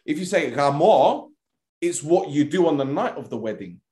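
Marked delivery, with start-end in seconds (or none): 0.5-1.3 "gamo" with the emphasis moved to the end, ga-MO; drawn-out "gamo", landing hard on the O; stress on the O. Shown as a demonstration. Teaching the rude Greek meaning, "gamo" stressed on the final O. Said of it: "it's where you put the emphasis".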